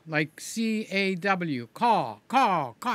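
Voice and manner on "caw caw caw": bird caw. Shown as a demonstration. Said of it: "I sound like a bird".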